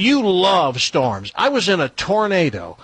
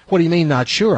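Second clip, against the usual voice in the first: mock-angry question; 2 semitones higher, 4 dB louder, faster than usual. Shown as a demonstration. Host's own parody of the heroine, mock-angry question. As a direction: demand it with a touch of put-on anger. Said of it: "sounding more angry than inquisitive".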